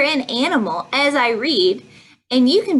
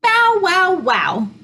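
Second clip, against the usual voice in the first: high bow-wow dropping back down; storybook dog bark, starting high and falling; 7 semitones higher than usual. A narrator's reading. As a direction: imitate a dog for children. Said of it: "Some other dogs go".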